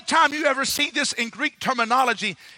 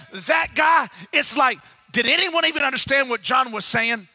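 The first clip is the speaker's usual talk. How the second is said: John calling out; 3 semitones higher than usual. Acted. John calls out to crowd.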